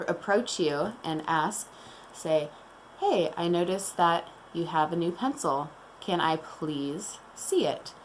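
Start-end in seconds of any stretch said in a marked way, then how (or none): 3.0-7.9 a calm and respectful request; calm polite request. Shown as a demonstration. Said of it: "See, that was direct".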